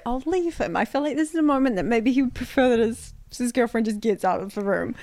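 retelling her own words through laughter; laughing retelling. Retold or imitated. Girlfriend retelling leaving the room, laughing. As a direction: giggle through the quote. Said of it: "when I was like".

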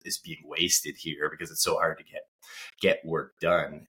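nasally from a cold; stuffy cold-nasal speech. Real, not acted. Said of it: "excuse me if I sound a little nasally".

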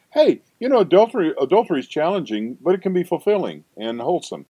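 high, breezy sing-song parody of a sermon line; mock-upbeat, pitched well up; mock cheerful teaching. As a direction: sell it like a too-chipper preacher. Mocking the church's teaching.

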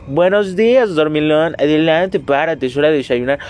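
loud mother waking a sleeper; mom's wake-up call. Retold or imitated. Podcaster imitates his mother waking him for breakfast, loud motherly call. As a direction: imitate a mom calling out good morning. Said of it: "mi mamá abría la puerta y me decía".

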